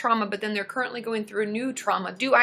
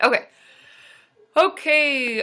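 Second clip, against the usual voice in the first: yawning, louder; 3 semitones higher, 5 dB louder than usual. Responding to audience comments, yawning. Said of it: "Sorry, I'm yawning".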